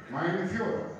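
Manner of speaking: hammed-up German accent, drawn out slow. Comic to his leader, in a hammed-up German accent. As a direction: call out in a mock German accent. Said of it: "I like to do that German accent".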